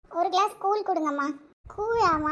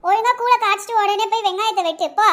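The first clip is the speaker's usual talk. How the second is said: angry scolding; 4 dB louder than usual. Acted. Aunt ordering girl away.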